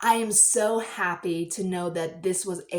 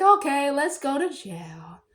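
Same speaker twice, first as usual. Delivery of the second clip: slow whisper; a playful whispered surrender to the boy cop; 6 semitones higher, 4 dB louder, slower than usual. Pretend. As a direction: give in slowly in a whisper. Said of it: "I'm like".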